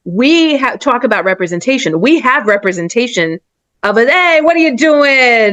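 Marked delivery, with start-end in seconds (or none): 4.1-5.5 higher, slow mock yell at another driver; hammed-up New Jersey driver snapping; Jersey road rage. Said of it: "in Jersey and New York".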